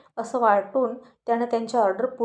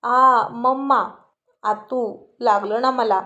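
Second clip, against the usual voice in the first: slow, louder pained yell at mom; cry of pain; 4 dB louder, slower than usual. Acted. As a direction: howl it like the kick hurt. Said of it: "Aryan ओरडायला लागला".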